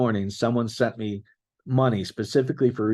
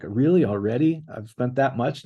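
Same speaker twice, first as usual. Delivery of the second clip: annoyed; 3 semitones higher than usual. Retold or imitated. Meter beeping, she got annoyed.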